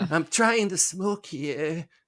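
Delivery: hammy bad-actor voice, very high, loud, drawn out. Trying the Nicolas Cage impression again, worse. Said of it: "That's even worse".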